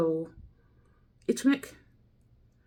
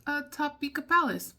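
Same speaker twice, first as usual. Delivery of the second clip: playful higher mock tourist; a hint of the cheery American explorer; mock traveler voice; 7 semitones higher than usual. Vlogger voices the app's American traveler, lightly raised. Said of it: "And then it's like".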